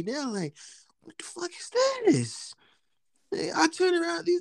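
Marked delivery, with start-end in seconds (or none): 1.0-2.5 high, whispery mock shock; shocked whisper. Retelling his reaction to the shelf, stunned.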